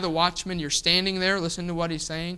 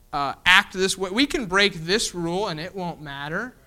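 mocking sarcasm. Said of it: "They're sarcastic".

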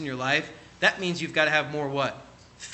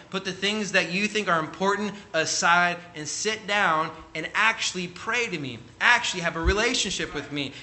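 voicing God; 3 semitones higher than usual. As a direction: speak as God inviting the listener to pray. Preacher voicing God's words.

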